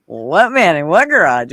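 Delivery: a loud, alarmed demand; alarmed question. Retold or imitated. Parents asking the little boy, loud and alarmed. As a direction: press hard for the answer, startled.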